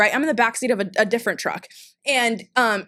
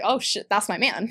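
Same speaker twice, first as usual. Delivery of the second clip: laughing; 2 semitones lower, 4 dB quieter than usual. Retold or imitated. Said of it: "I'm like".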